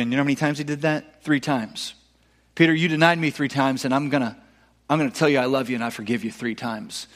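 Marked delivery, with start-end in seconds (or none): 2.5-7.1 tender forgiveness. Retold or imitated. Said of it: "Jesus speaking to Peter".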